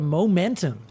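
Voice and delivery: "momentum" imitated the American way; American-style "momentum" in a quote; American pronunciation. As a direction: mimic an American saying "momentum". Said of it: "You guys say".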